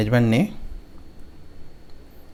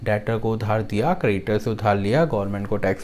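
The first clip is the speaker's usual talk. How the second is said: line-by-line memory chant, each line ending on a lift; song-like mnemonic recitation. Shown as a demonstration. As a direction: recite it rhythmically for students to repeat. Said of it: "एक गाने की तरह बनाया हमने". (गाने की तरह याद कराने वाला पाठ)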